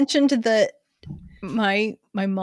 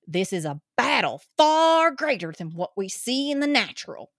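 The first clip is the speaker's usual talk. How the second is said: angry Georgia conspiracy theorist. Acted. Candidate reading her campaign ad, crazed Georgia accent. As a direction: preach doom in a Georgia accent. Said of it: "batshit crazy conspiracy chick impression".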